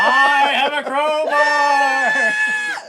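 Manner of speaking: slow, high, laughing ghost wail; ghostly voice. Acted. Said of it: "you hear this ghostly voice".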